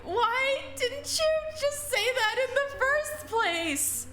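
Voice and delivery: sob-laugh in relief at his confession; quavering sniveling voice. Acted. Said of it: "in a quavering, sniveling voice".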